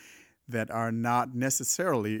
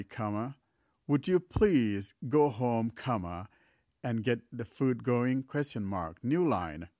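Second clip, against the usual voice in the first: dictating. Shown as a demonstration. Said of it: "I'm gonna dictate a few text".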